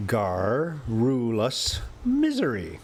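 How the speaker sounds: garrulous misery slow, stress on misery; slow careful garrulous misery; deliberate reread. Shown as a demonstration. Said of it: "but it's".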